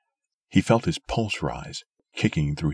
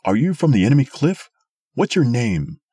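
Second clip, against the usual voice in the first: fast, loud, higher shouted questions; 7 semitones higher, 6 dB louder than usual. A narrator's reading. Old man on the cliff questioning Sim in a fast, loud shout. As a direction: keep yelling the demands. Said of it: "he shouted".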